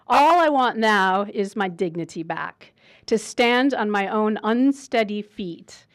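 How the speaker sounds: put-on slow, measured poetry recital in a Midwestern accent; poem reading. Introducing the guest by reading his poem, slow poem reading. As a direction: read the poem slowly, line by line. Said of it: "read it in my one hundred percent Midwestern American accent".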